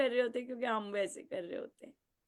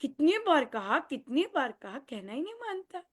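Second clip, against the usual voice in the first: louder, higher nagging repeat; exasperated parent; 4 semitones higher, 5 dB louder than usual. Retold or imitated. Parent nagging a child who ignores them, fed up. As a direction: sound fed up with saying it again and again.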